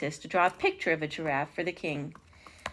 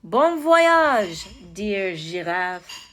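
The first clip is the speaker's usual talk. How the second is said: calling out farewell; 5 dB louder, much slower than usual. A narrator's reading. Ambassador to departing giraffe, calling out. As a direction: sing out a send-off, then stretch the end. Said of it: "the ambassador called as he waved from the dock".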